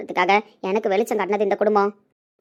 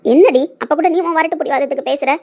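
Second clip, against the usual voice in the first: louder, higher exasperated outburst; scolding; 4 semitones higher, 6 dB louder than usual. Acted. Mother rebuking her stubborn daughter, exasperated and raised. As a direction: scold with a sharp rise on the first word.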